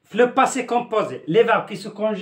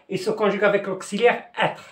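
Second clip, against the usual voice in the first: "il se conjugue avec l'auxiliaire être" said slowly and clearly; slow dictation. Shown as a demonstration. Teacher slowly stressing the rule to students: slow, deliberate. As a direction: spell it out slowly for the class. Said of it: "Faites attention".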